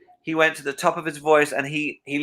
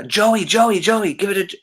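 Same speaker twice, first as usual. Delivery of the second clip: higher, eager calling voice; Michael calling Joey; 8 semitones higher than usual. Retold or imitated. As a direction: call the guard over, pitched up. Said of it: "And he said".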